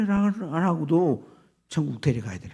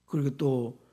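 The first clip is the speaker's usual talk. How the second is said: ordinary talk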